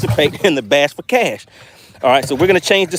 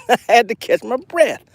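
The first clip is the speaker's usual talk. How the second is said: laughing it off, higher; 6 semitones higher than usual. Real, not acted. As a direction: repeat it with a laugh.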